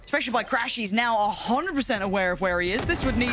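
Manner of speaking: fast live game call; esports caster. Acted. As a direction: narrate the play live. Live play-by-play casting.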